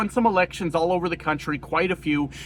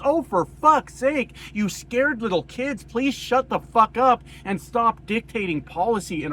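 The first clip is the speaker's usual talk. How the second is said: higher and slowed, fed-up exasperation; exasperated outburst; 6 semitones higher than usual. Real, not acted. Vlogger scolding scared voters, exasperated angry outburst. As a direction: let the disgust burst out, dragging it. Ranting at fearmongers.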